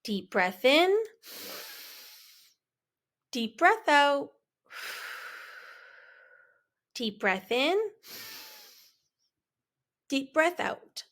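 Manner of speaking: calm breathing cue. Shown as a demonstration. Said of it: "Breathe deeply".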